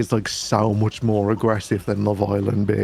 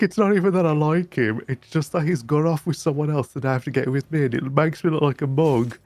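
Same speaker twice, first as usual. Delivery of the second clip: put-on high, fast, whiny Geordie girl rant; imitating a tipsy girl complaining, pitched up; hammed-up tearful Geordie girl, high and fast; mock drunk reality star; 5 semitones higher, faster than usual. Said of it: "She's like".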